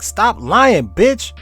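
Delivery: mock yell. Imagined Hawking yelling at the interviewer, hammed up. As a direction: yell it at the liar in mock outrage. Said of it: "He like".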